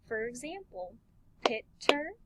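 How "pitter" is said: "pitter" said in two clear beats, pit-ter; syllable demo. Shown as a demonstration. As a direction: split "pitter" into its two sounds for children. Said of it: "has two sounds".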